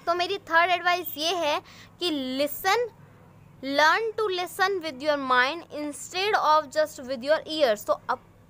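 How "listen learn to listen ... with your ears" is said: put-on slow, clear English read-aloud for young pupils; teacher reading the story aloud slowly; slow storybook reading. A narrator's reading. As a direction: read each word out slowly for the class.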